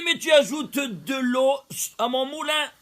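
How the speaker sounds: loud, high shout of triumph; triumphant retort. Retold or imitated. Rabbi answering the doctor with a triumphant shout. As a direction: fling the reply back in delight. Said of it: "je lui dis".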